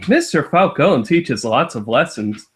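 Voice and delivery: light sing-song storybook voice; children's book narration. Acted. Friend mock-reads the book's captions, sing-song. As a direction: read it like a cheerful kids' book.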